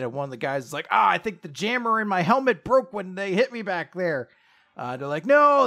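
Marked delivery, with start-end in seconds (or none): 0.9-4.3 high, mildly panicked explanation; acted nervous excuse; terrified criminal. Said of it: "criminals start getting really terrified". 5.3-5.7 high, loud drawn-out plea; long, raised wail of protest; begging for life. Acted. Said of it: "They start begging for their worthless lives".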